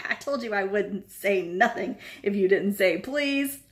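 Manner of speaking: cackling gloat; laughing taunt. Acted.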